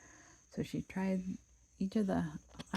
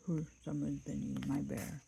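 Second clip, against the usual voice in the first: gruff papa bear. Acted. Papa Bear grumbling over his bowl, gruff voice. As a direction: growl it like a big bear. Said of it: "great rough, gruff voice".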